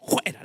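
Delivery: "Fuera" begun with a raspy J sound, "juera"; imitating the pastor's "Fuera" said as "juera". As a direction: say "Fuera" as "juera", mostly breath. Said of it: "le dijo el pastor".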